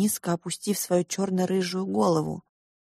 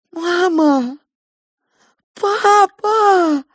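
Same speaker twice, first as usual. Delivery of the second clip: anguished cry; 12 semitones higher, 10 dB louder, much slower than usual. Acted. Girl cries out for parents.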